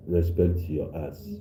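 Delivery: slow, stern warning to a rude caller; slow scolding warning with a rising end. Real, not acted. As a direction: lean on ass and let it rise. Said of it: "Be careful".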